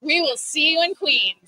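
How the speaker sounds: slow, drawn-out sales pitch line; salesman voice. Pretend. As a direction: sell it like a pushy salesman. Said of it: "Can you just say in your best salesman voice".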